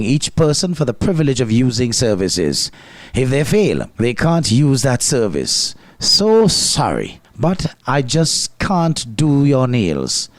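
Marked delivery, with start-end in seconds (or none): 6.0-10.3 very slow, drawn-out fake regret; mock apology. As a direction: turn the customer away with exaggerated sorrow. Mock refusal by a certified service worker.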